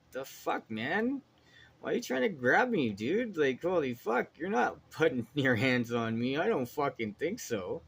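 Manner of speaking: high, loud, incredulous yelling; outraged yelling. Retold or imitated. At the man trying to grab him, a high outraged yell. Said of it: "I'm just like".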